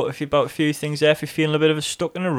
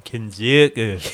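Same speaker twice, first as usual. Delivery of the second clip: mock Asian accent; 4 semitones lower, much slower than usual. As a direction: lower "Kinzoku" in a put-on Asian accent. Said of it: "In Asian accents".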